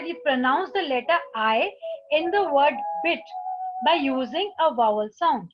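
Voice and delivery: slow, careful reading of an English instruction; slow textbook reading. Acted. Teacher reading the book to students, slowly. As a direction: read it out slowly for the class.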